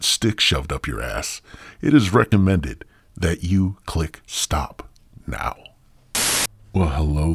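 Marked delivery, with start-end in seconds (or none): 1.8-5.5 whisper. Acted.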